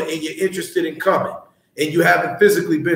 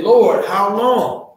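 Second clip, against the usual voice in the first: quoting the plea; 3 semitones higher, much slower than usual. Retold or imitated. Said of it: "what is he talking about when he said".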